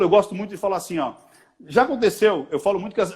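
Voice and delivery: usual speaking voice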